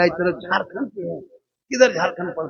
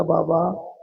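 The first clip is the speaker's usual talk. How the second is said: crying out to Baba, higher and louder; a broken man begging through tears; loud, high tearful pleading at the shrine; weeping plea; 5 semitones higher, 7 dB louder than usual. Acted. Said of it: "रो रो के कहने लगा".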